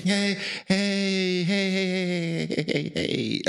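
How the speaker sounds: calling out hey. Retold or imitated. Calling out to stop women.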